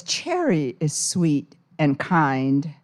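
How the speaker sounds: grandmother's threat. Acted. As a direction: threaten like a fierce old grandmother. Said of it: "Her grandmother says".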